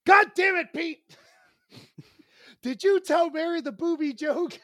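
high-pitched mock outrage; exasperated phone scolding, half amused; imitating exasperated sister. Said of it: "pissed off and laughing at the same time".

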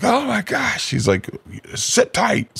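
high squeaky cop impression; mock cop. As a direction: play the stunned cop lightly.

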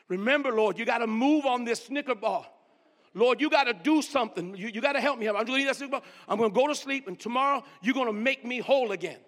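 loud pleading prayer. Retold or imitated. Preacher begging God aloud for strength, insistent. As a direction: call out to God, demanding help.

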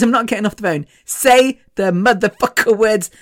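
retold firm demand; pissed off. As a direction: imitate an angry friend insisting. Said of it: "so pissed off".

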